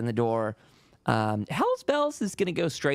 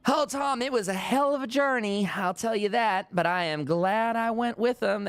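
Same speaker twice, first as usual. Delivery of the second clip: much higher voiced woman, cheerful and chatty; Lena's voice; 5 semitones higher than usual. Lena telling Tom about the journey, excited and high. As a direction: bubble over about the trip, pitched up. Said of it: "Lena pops her head in and goes".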